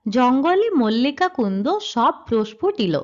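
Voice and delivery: slow, measured reading of the rewritten line; verse reading. Shown as a demonstration. Teacher reading the rewritten verse line to students, slow. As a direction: recite the line slowly so the syllables stand out. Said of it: "লক্ষ্য করো".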